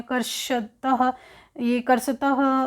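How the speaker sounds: कर्षतः said slowly, every syllable kar-sha-tah clear; कर्षतः spelled out slowly for students; slow drawn-out कर्षतः. Shown as a demonstration. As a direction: stretch out कर्षतः for the class.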